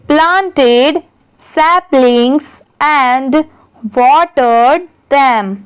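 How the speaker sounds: slow word-by-word reading to pupils; very slow, careful read-aloud; slow classroom reading. Shown as a demonstration. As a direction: read each word out slowly for children to follow. Reads English paragraph aloud, word by word.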